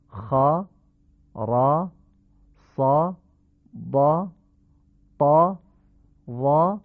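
خا را صا with open heavy a; each letter with a short open a; Arabic heavy fatha. Shown as a demonstration. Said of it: "فتحه با هشت حرفی". (فتحهٔ عربی درشت)

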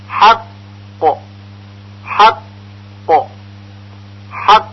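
حق with a firm, held قاف bounce; doubled qalqala. Shown as a demonstration. Teacher showing students a stressed qalqala in حق.

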